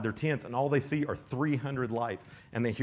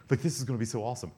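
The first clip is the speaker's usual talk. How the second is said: jittery excitement; much faster than usual. Retold or imitated. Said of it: "he's, like, real jittery".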